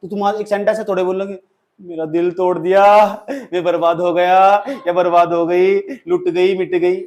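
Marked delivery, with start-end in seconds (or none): 1.8-7.0 mock heartbroken wail. Shown as a demonstration. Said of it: "ऐसे नहीं बोलना".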